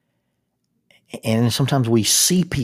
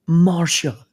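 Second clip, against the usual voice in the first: high, loud call across a field; hammed-up romantic shout; melodrama yell; 8 semitones higher, 6 dB louder than usual. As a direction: call out her name like a movie lover. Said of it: "and he yells".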